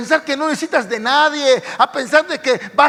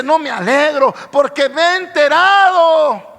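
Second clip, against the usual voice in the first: raised, stern rebuke to the church; Paul's rebuke; 4 dB louder than usual. Retold or imitated. Paul writing to the Corinthians, loud stern rebuke. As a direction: proclaim it like Paul scolding Corinth.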